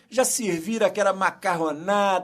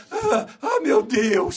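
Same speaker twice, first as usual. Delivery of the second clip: mock mother panic; 3 semitones higher, slower than usual. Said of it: "mamãe começa lá".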